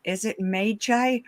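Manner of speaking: Magi said as MAY-jye, slow and questioning; trying a pronunciation. Shown as a demonstration. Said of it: "flummoxed by how to pronounce".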